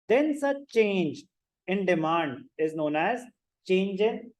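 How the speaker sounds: slow, deliberate classroom dictation; drawn-out teacher read-out for note-takers. Acted. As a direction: dictate slowly, phrase by phrase, leaning on key terms. Dictates a definition to students.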